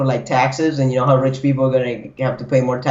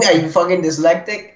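laughing; 2 semitones higher than usual. Real, not acted. Repeats quote laughing.

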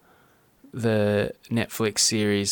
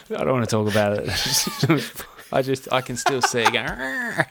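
laughing. Real, not acted. Laughing over the eagle memory.

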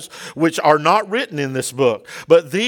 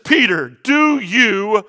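tender questioning; 5 semitones lower than usual. Acted. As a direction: coax him like an old friend. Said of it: "Jesus changes gears".

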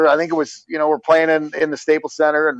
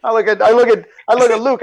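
ordinary delivery

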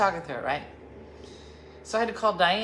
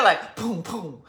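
sound effect; 5 dB louder, slower than usual. Real, not acted. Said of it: "I don't know why I made that sound".

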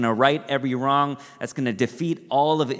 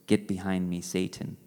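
stern rebuke; 6 semitones lower, 7 dB quieter than usual. Retold or imitated. Jesus rebuking Peter retold.

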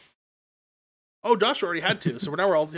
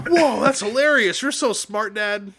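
imitating kids; 7 semitones higher, 5 dB louder, slower than usual. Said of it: "they're just like".

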